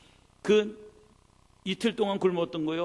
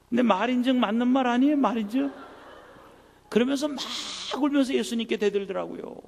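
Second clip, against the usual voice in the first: high, loud rousing sermon voice; preaching at full force; fired-up preaching; 8 semitones higher, 7 dB louder than usual. Real, not acted. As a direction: stir up the congregation.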